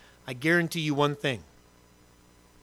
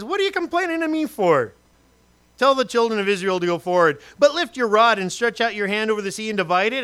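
preaching God's word. Acted. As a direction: proclaim it with authority. God's speech read aloud.

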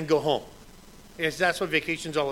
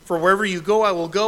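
earnest vow; 7 dB louder, faster than usual. Retold or imitated. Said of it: "Ruth said".

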